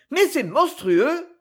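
high, slow outraged exclamation; indignant protest. A narrator's reading. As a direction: protest in disbelief, drawing it out. Mother protests at the lawyer's verdict. (protestation indignée, aiguë et lente)

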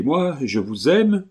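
high, slow, incredulous question; aghast cry. A narrator's reading. Colomban asks if he loves her, aghast cry. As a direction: draw out the shocked question. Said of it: "s'écria Colomban en rouvrant des yeux épouvantés".

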